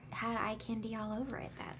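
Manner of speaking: unvoiced whispered aside; whispering. Real, not acted. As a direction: whisper it confidentially.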